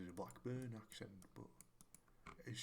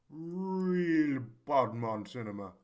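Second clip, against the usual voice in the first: loud, slow, hammed-up street-slang accent; mock street accent; 5 semitones higher, 13 dB louder, much slower than usual. Joking about the town's cinema in a loud, slow mock street accent. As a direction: lean hard into a jokey tough-guy street accent. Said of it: "there's the offensive accent".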